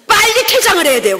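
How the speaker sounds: loud, high panicked laugh-speech; laughing panic to partner; laughing urgent alarm. Retold or imitated. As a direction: blurt the escape plan laughing. Urgent whisper-thought with laugh.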